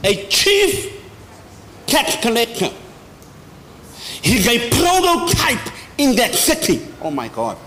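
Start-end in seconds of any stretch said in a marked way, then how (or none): 0.0-2.7 pitched up. Real, not acted. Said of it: "what was his profession?". 4.2-6.9 preaching shout. Real, not acted. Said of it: "preacher shouting".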